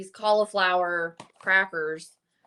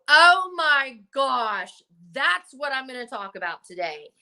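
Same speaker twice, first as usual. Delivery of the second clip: excited realization; 3 semitones higher, 4 dB louder than usual. Retold or imitated. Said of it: "where you go".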